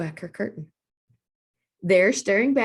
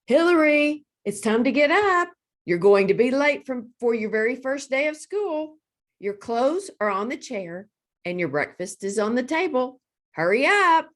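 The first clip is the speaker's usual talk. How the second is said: high, loud mother calling up the stairs; mother shouting upstairs to wake Hillary; 5 semitones higher, 4 dB louder than usual. A narrator's reading. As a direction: call her daughter out of bed. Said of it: "her mother yelled from downstairs".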